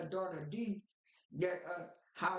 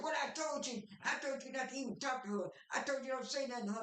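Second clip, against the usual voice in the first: mock scolding; 5 semitones higher than usual. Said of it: "J J got all mad".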